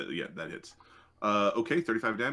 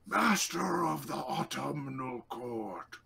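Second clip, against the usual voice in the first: grand fae proclamation; 4 semitones higher than usual. Acted. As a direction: stretch out the title with theatrical grandeur. Game master voices proclaiming fae lord.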